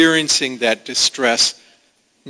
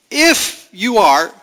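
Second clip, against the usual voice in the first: slow, higher taunting emphasis on if; Satan tempting Jesus; 7 semitones higher, 3 dB louder, slower than usual. Acted. Satan challenging Jesus in the wilderness, slow mocking voice. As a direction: drawl out the big if like a tempter. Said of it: "Satan came to him and he says".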